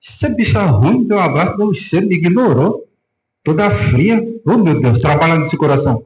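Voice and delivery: grumbling complaint dressed up as prayer; mock resentful prayer. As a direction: act out a bitter, petty plea to God. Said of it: "ao invés de dizer assim".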